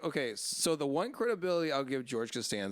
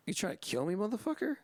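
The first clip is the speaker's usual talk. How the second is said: mock outraged yell climbing high at the end; angry retort; 7 semitones higher than usual. Man outside the donut shop snapping at the giver, mock outraged. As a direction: spit out the insult like he's offended. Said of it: "And he's like".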